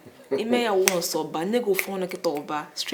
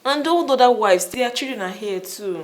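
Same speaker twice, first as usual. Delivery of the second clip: louder, pressing the husband; insistent; 6 dB louder than usual. Acted. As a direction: push him hard for it. Wife demanding babies.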